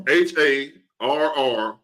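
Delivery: H A R R spelled slowly, each letter apart; dictating. Real, not acted. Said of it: "It's two R's".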